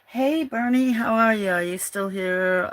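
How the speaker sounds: high, loud calling out. Real, not acted. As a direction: shout a greeting across the room. Calling out louder to Bernie.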